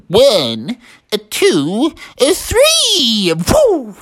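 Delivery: rising sing-out count to a big push; heave-ho count. A narrator's reading.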